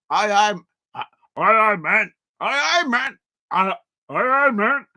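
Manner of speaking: repeated, punchy attempts at a Geordie accent; Newcastle accent. Shown as a demonstration. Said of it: "How do you do a Newcastle accent?".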